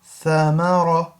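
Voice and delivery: in ثمر round the ra fully, tha between the teeth; full-mouth ra. Shown as a demonstration. Teacher modelling ثمر, slow, with full-mouth ra. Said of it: "ra has to be a full mouth".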